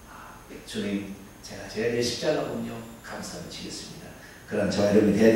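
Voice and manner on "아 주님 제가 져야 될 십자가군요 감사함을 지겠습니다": humble whispered prayer. Acted. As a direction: pray it quietly and humbly. Sermon, sample humble prayer to Lord. (조용히 속삭이는 겸손한 기도)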